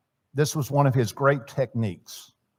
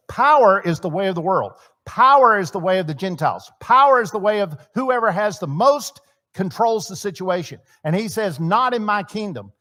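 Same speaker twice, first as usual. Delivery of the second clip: proclaiming Jesus; 5 semitones higher, 3 dB louder than usual. Acted. Jesus voiced declaring kingdom.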